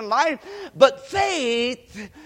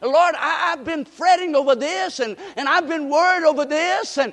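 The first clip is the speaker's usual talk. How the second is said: praying at the altar; 5 semitones higher than usual. Pretend. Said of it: "go to the altar and say".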